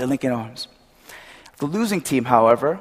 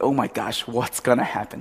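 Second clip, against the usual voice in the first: softer, lower mock-anxious murmur; quietly acted suspense; hushed suspense; 3 semitones lower, 7 dB quieter than usual. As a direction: imitate a hushed crowd waiting. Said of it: "everything is silent".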